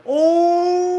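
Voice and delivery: shriek, then crack up; gleeful shriek. Retold or imitated. Kids whooping at a classmate cursing the officer, shrieking laugh. Kids react to "fuck you.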